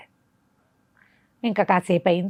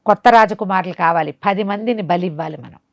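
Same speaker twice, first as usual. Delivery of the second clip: sorcerer ordering; 3 semitones higher, 3 dB louder than usual. Acted. Sorcerer scolds and plans sacrifice.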